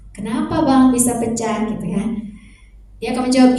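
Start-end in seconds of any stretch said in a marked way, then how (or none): 0.1-1.6 calm question. Shown as a demonstration. Mother calmly asks son why the vase broke. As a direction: keep the voice level and calm. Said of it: "tanya dulu, kita tenang".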